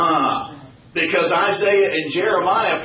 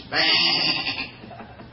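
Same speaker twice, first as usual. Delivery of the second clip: poor animal impression; 2 semitones higher than usual. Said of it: "It's a poor impression".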